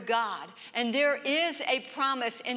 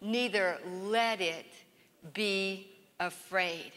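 gentle quote fading; 3 semitones lower, slower than usual. Shown as a demonstration. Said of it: "Because Jesus said".

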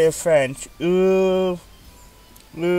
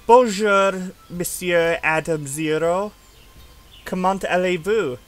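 French greeting. Retold or imitated. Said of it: "as the French would like to say it".

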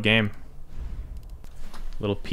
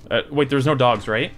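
usual speaking voice

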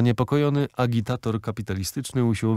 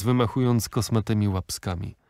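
plain reading voice

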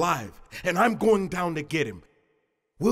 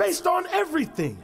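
shouting; 9 semitones higher than usual. Acted. Insists against Iltani's doubt.

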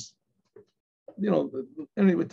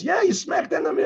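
retold complaint; 10 semitones higher than usual. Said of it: "the guy behind him says".

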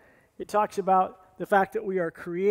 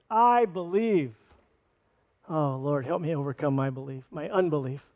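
quiet heartfelt prayer; 2 semitones lower than usual. Shown as a demonstration. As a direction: pray it softly, a sincere confession. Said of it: "I hope you get that phrase".

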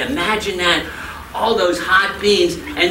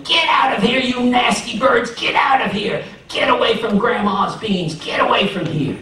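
neighbors yelling; 6 semitones higher than usual. A narrator's reading. Neighbors chasing birds from Grandma's beans, yelling. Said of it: "there was some yelling out in the field".

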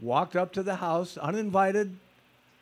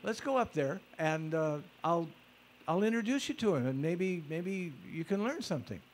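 earnest persuading; 5 dB quieter than usual. Retold or imitated. Offering to introduce her to him, earnest persuading. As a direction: coax a doubter, pitched up. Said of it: "very skeptical".

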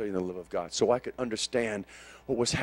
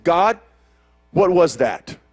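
calling out to God, louder; loud demand; 4 semitones higher, 10 dB louder, slower than usual. Retold or imitated. Preacher retells confronting God loudly with a question. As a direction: challenge God with a sharp question.

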